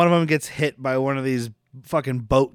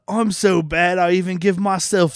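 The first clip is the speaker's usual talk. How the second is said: imitated cartoonish villain; 3 semitones higher than usual. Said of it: "he does say something about".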